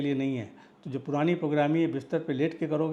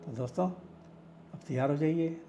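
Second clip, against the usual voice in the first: guided meditation. Acted. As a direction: guide the listener into relaxation, pausing between phrases. (निर्देशित ध्यान की धीमी, ठहरी हुई आवाज़)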